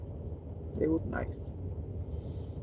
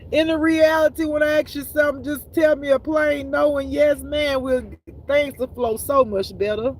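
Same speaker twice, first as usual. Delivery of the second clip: much higher and louder, laughing plea to God; excited plea; 10 semitones higher, 5 dB louder than usual. Real, not acted. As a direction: raise your voice high and beg God for a plain answer, half laughing. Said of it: "if that wasn't clear".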